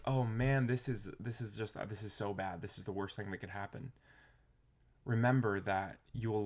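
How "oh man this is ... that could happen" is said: despairing aside. Retold or imitated. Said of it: "the next time you feel like".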